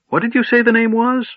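put-on high, quavering forgetful old man; puzzled old wizard voice; doddering old wizard.

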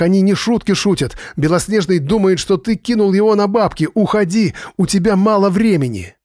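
высоко, в панике, голос срывается; предупреждает друга в ужасе; дрожащий срывающийся голос. A narrator's reading. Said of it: "Голос Джо дрожал и срывался". (дрожащий, срывающийся голос)

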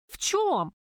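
резко выше и громче, в негодовании; вскинься от возмущения; возмущённый вскрик. Acted. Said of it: "аж подскочила от возмущения". (возмущённый вскрик Любки)

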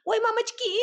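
very high, panicked shriek; frantic scream. A narrator's reading. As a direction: scream as it all falls. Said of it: "истошный вопль Агаши".

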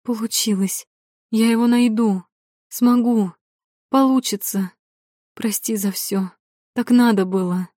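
breathless fast babbling; rapid excited chatter. Acted. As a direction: gush it out quickly. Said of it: "затараторила".

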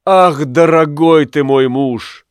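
a lightly voiced wife, tender and torn; loving wife. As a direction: plead with love, slowing at the end. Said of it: "говорила она".

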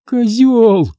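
high, sharp insult; high furious girl's cry; angry outburst. A narrator's reading. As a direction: spit it at him, feeling cheated. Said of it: "Чувствуя себя обманутой, не выдержала".

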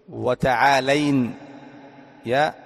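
تعالين drawn out very slowly; slow teacher's dictation of تعالين. Shown as a demonstration. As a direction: spell out تعالين slowly for the class. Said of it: "تقول".

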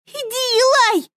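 high, urgent order; urgent command. A narrator's reading. Girl orders the boy to go, high and urgent. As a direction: push him out with your voice.

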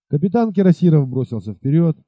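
ordinary delivery, nothing marked

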